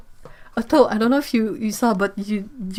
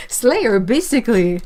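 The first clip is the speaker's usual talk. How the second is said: laughing; 2 semitones higher, 5 dB louder than usual. Real, not acted.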